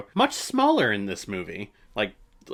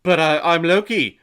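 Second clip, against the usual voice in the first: indignant Loki; 6 semitones higher, 9 dB louder than usual. Retold or imitated. Voicing Loki's protest.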